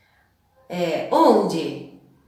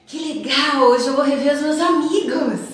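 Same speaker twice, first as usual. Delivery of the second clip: higher and louder, happy lift; cheerful exclaim, pitched up and bright with joy; joyful; 6 semitones higher, 5 dB louder than usual. Shown as a demonstration. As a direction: bubble over about seeing friends. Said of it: "Pode indicar alegria".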